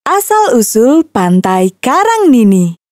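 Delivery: ordinary delivery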